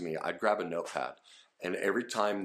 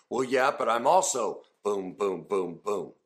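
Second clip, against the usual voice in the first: upset outpouring; 2 semitones higher, 6 dB louder than usual. Acted. Upset speaker pours out more feelings.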